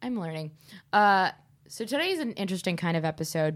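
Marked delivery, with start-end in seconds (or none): 0.0-0.5 hungover. Real, not acted. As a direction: talk like you're nursing a hangover. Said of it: "I'm very hungover".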